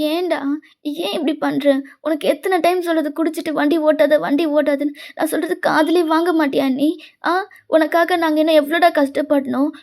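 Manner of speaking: understated weepy pleading; tearful scolding. Acted. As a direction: scold a friend as if close to tears. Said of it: "அழுவுறான் ஜே கேக்கு".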